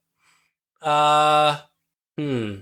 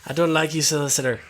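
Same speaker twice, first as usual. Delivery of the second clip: put-on Irish accent. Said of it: "pretty good Irish accent".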